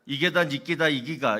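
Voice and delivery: brusque Gyeongsang dialect retort; 경상도 사투리로 퉁명스럽게; Gyeongsang accent. Retold or imitated. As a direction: snap back in thick Gyeongsang dialect. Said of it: "해석하면".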